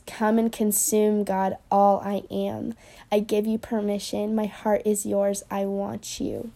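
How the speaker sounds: slow, tender recitation; tender lyric. Shown as a demonstration. Reciting the bridge that moves her close to tears. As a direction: let each line land slowly. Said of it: "the part that says".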